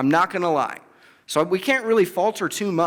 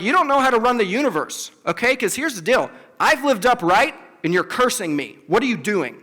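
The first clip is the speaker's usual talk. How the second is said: higher, fast, indignant accusation; accusing God, higher and fast; 4 semitones higher than usual. Retold or imitated. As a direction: hurl the charge at God, a touch fast. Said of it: "he basically accuses God".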